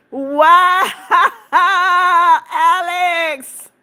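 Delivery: laughing through the words; amazed laughter. Real, not acted. Streamer amazed at Alex's forty gifts, laughing. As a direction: break into laughter mid-exclamation.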